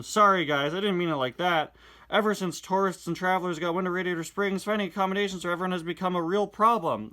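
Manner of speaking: animated reading of the twins and Sally; comic dialogue read-aloud. Acted. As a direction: perform the comic lines with energy.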